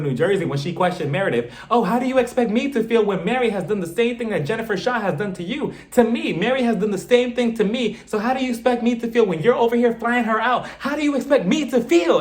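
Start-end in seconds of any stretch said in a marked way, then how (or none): 1.7-12.2 Teresa energy. Retold or imitated. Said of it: "borderline energy of Teresa".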